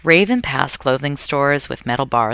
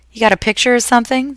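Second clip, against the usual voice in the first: interrupting; 10 semitones higher, 5 dB louder, faster than usual. A narrator's reading. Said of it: "the old woman interrupted".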